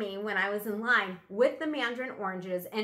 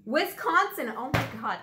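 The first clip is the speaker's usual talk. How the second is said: surprised realization; 4 semitones higher, 5 dB louder than usual. Real, not acted. Discovering the right state.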